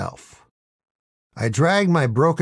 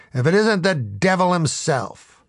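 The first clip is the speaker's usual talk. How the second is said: raised, mock-dramatic angry call; angry shout; 6 semitones higher than usual. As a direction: confront him with hammed-up anger. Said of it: "I shouted angrily".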